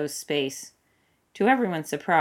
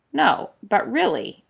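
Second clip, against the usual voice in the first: raised, slow insistence; louder; 7 semitones higher, 5 dB louder, slower than usual. A narrator's reading. Aramis sitting up, insisting louder to the others. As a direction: push it louder, higher. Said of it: "Aramis said louder".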